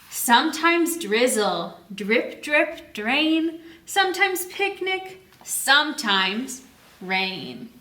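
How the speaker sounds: slow, sing-song read-aloud; read-aloud storytime. Acted. Teacher reads picture book rhyme to children, sing-song and slow. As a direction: read the rhyme slowly to the kids.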